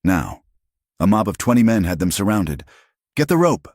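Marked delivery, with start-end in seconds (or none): 3.2-3.7 high-pitched yell from a crowd, only moderately loud; mob yell. A narrator's reading. Man in the mob calling for a hanging, high yell. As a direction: call it out like one of a lynch mob. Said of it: "someone yelled".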